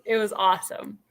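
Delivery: hushed, breathless awe; awed whisper. Retold or imitated. Friends at the race finish, whispered in awe. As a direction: whisper it like you can't believe it.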